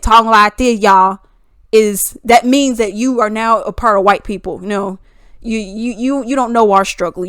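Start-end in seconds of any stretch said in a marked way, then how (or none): 0.0-1.2 louder, put-on Black American accent; little Black American accent. Shown as a demonstration. Mocking those who say she sounds white, exaggerated Black American accent. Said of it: "not having this little accent".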